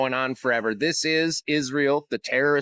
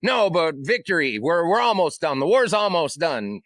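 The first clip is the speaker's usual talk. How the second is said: mock Trump dodging; 2 semitones higher than usual. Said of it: "And he's like".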